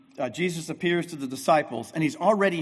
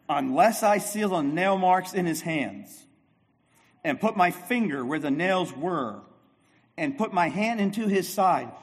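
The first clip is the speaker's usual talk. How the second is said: demanding; 3 semitones higher than usual. Retold or imitated. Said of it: "But Thomas said to them".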